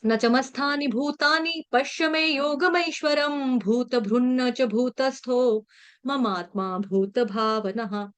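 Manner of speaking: slow, measured Sanskrit chanting; shloka recitation. Shown as a demonstration. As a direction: recite each syllable slowly and clearly. (धीमा, स्पष्ट श्लोक पाठ)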